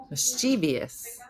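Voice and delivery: slow Mischievous with an extra "ee" syllable; mispronounced mischievous. Shown as a demonstration. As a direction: say Mischievous as "mis-CHEE-vee-us". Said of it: "Mischievous is wrong".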